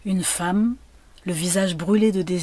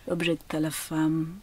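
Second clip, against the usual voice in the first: plain reading voice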